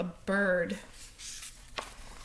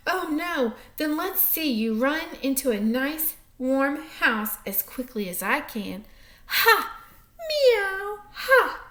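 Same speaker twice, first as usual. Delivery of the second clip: high gloating cat voice with a meow; taunting cat; 4 semitones higher than usual. Acted. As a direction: preen like a smug cat.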